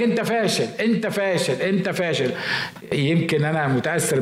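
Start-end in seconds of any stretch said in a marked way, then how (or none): 0.0-2.3 higher-pitched mock accuser, repeating the jab; insistent repeated taunt. A voice that keeps calling you a failure, insistent mock taunt. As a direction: keep needling, the same phrase over and over. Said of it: "لأن في حد هيفضل يقول لك".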